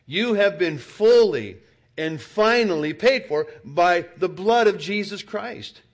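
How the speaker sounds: loud, high proclamation; fervent preaching. Real, not acted. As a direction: preach it with full force. Full-force preaching.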